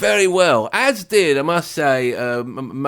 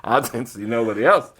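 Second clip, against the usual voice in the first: bad De Niro impression; 4 semitones lower, 3 dB quieter than usual. Pundit owning up to a hammed-up De Niro voice. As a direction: lightly ham up a Taxi Driver De Niro, fading softer. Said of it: "the worst Robert De Niro impression that's ever been done".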